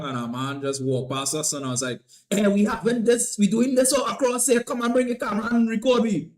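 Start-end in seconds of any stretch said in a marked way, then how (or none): 2.3-6.3 high, loud call to a passer-by; retold call-out. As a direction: re-enact hailing someone across the way. Retells calling out to a passing man.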